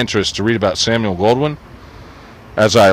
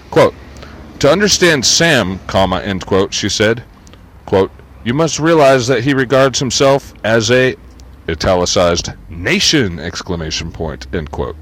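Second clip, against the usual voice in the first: reading punctuation aloud. Shown as a demonstration. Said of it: "that's the problem with trying to read".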